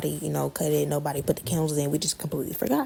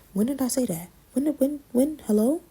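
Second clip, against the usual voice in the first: rising high and louder, outraged; indignant, going higher and louder at the end; indignant disbelief; 6 semitones higher, 4 dB louder than usual. Real, not acted. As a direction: climb higher with each disbelieving protest. Indignant at false accusation.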